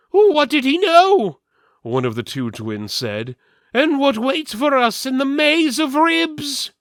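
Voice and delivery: high, loud fretful questions; anxious twin. Acted. Twin anxious after assassin.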